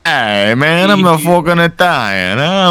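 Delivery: light mock Italian mobster; Italian mafia accent. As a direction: swagger like a wise guy. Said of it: "the fucking mafia bit".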